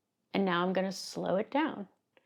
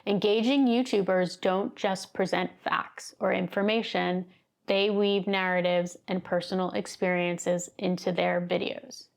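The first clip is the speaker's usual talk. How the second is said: robotic stilted reading. Shown as a demonstration. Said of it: "read it in a very robotic, stilted fashion".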